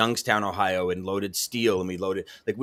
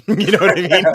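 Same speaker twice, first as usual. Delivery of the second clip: laughing as she asks; laughing question; 8 semitones higher, 11 dB louder than usual. Real, not acted. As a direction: laugh it out, amused. Laughing at own joke.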